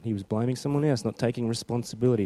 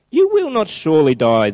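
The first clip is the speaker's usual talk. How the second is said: a light sly serpent voice, a touch louder; lightly voiced tempting snake; 5 semitones higher, 9 dB louder than usual. Preacher tempting Eve as the serpent, sly snake voice. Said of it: "You like that voice?".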